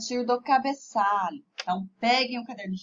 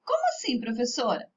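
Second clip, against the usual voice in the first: puzzled pupil; faster than usual. Acted. Pupil asks the teacher how that works, puzzled.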